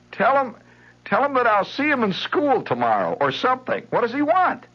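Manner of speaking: put-on very high, loud girlish brush-off; impatient Patty. Girl calls to her mother to send the boy off, impatient. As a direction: get rid of him quickly.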